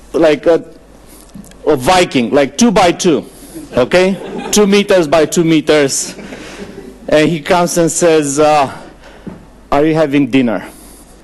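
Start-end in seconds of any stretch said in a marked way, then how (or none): 9.7-10.6 flat, final, statement-like fall on dinner. Retelling a very tall man's question at a meal, falling tone on 'dinner'. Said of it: "But it's like final".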